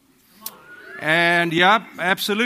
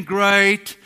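forced chirpy answer, louder and higher; fake cheerful great; 4 semitones higher, 6 dB louder than usual. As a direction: chirp it out, hiding the fight. Forced church greeting after fight.

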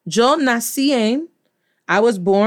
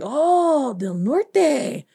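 imitated caller's reaction; 5 semitones higher, much slower than usual. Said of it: "They were like".

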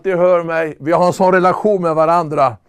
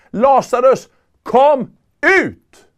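commanding call; 3 semitones higher, slower than usual. Acted. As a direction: command the dead man out of the tomb. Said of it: "nu säger han det med hög röst". (befallande rop med hög röst)

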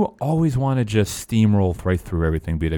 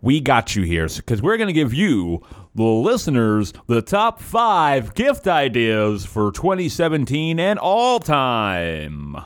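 ringmaster. Acted. Mock ringmaster announcement.

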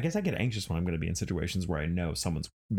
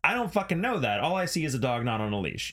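retold angry rant; 8 semitones higher than usual. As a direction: scold him with heat. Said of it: "I'm like".

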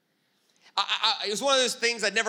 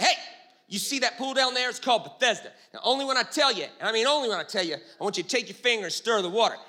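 scheming God. Retold or imitated. Preacher voicing God planning the healing race, gleeful. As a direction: lay out the plan like a gleeful schemer. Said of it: "And God's like".

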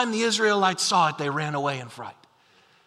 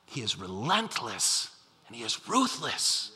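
much lower and softer, slow and heavy; ominous low hush; 9 semitones lower, 9 dB quieter than usual. Acted. Preacher warning the church about the giant, dropping to a slow ominous hush. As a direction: let the menace sink in low and slow. Preacher dramatizes Goliath's menace.

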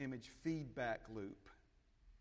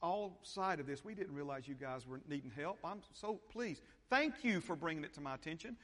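higher, sheepish mock apology; mock apologetic God; 4 semitones higher than usual. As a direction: ham up a sorry, distracted God. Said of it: "He didn't say".

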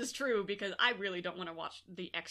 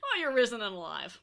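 laughing; 3 semitones higher, 6 dB louder than usual. Real, not acted. Laughing at partner.

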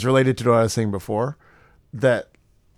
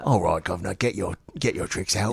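mock British accent; 4 semitones lower, 7 dB quieter than usual. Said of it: "I have to say governor".

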